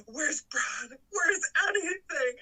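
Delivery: high, drawn-out melodramatic wail; mock despair. Fan imitating Janet alone in her room, mock despair. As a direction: plead it, hammed-up and helpless. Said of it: "in despair and shit".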